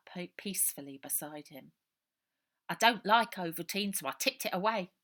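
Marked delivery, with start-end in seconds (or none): 2.7-4.9 put-on a scared street boy pouring it all out; orphan boy Robert. Runaway boy telling Ida his story, loud and urgent.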